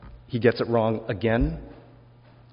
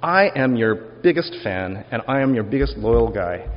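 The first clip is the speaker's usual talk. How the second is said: eager boast; 4 dB louder than usual. Acted. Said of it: "Peter insists loudly and emphatically".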